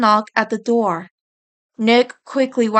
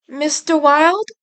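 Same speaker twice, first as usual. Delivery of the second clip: worried call; 6 semitones higher than usual. A narrator's reading. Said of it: "she called once again".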